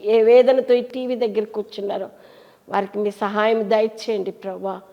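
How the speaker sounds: steady, pleading prayer voice; earnest prayer. Acted. Pastor praying for viewers at home, earnest and pleading. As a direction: pray over the listeners, earnest and intimate.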